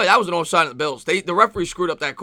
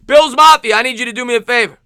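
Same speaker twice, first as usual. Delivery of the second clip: building to a huge yell on up; rallying shout; 5 semitones higher, 5 dB louder than usual. Real, not acted. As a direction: whip up the crowd, louder and higher. Rallying fans during a tense drive.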